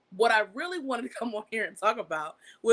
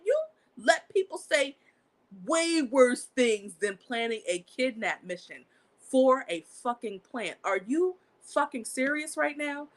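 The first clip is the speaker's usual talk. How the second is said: indignant retort; 4 semitones higher, slower than usual. Retold or imitated. Retold indignant reply to Facebook.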